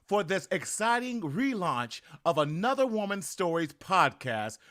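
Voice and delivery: slow, drawn-out podcast intro read; radio-style show opener; announcer intro. Acted.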